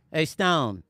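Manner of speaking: lightly imitated low-key musician friend; a hint of a laid-back caller; Amir. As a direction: casually imitate a friend phoning. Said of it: "This is how Amir sounds".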